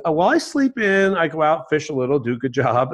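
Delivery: cheerfully carefree fisherman, lightly acted; very joyful. Fisherman describes his easy day to businessman, joyful. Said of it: "very joyfully".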